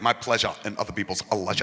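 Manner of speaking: put-on quick, low Scottish accent; lightly voiced fast Scottish brogue; Spud. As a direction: rattle it off in Scottish dialect. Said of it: "Remember fucking Spud, who he's like".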